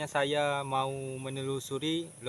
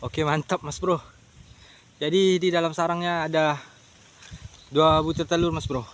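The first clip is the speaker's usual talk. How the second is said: excited; 3 semitones higher, 8 dB louder than usual. Real, not acted. Finds two eggs in nest.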